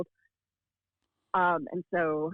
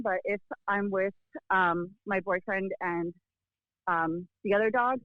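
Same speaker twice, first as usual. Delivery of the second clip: wheezing while walking; out of breath. Real, not acted. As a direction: talk while slightly winded. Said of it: "which is why I sound like I'm wheezing".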